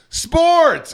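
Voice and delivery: high, drawn-out "sports" catchphrase; mocking high-pitched radio shout; mimicked radio host. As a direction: imitate a host hollering a show bit. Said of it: "and Scott goes".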